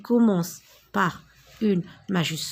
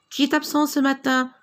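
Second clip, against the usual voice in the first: teacher calling the register; 4 semitones higher than usual. Shown as a demonstration. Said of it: "La maîtresse lors de l'appel en classe".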